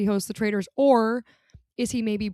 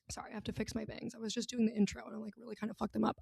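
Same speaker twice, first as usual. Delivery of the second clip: much softer, hurried aside; murmured, fast side remark; quiet aside; 15 dB quieter, faster than usual. Real, not acted. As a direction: drop right down for a quick apology. Aside while fixing her bangs.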